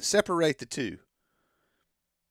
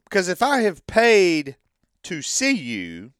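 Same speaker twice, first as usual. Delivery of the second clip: usual speaking voice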